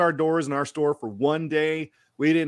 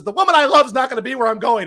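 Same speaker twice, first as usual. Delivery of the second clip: higher and louder, a mock lament; loud wail; 10 semitones higher, 7 dB louder than usual. Husband tells wife his idol won't come, loud mock lament. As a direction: wail it like a heartbroken fan.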